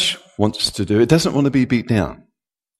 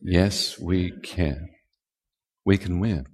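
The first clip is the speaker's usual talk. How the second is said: softer, hushed yes we can; 7 semitones lower, 11 dB quieter than usual. Shown as a demonstration. Preacher hushing the repeated chant. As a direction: drop the rally to a hush. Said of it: "Say it again".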